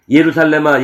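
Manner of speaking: crying out the city's name loudly; loud lament. Acted. Jesus lamenting over Jerusalem, a loud cry. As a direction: call out to Jerusalem in grief.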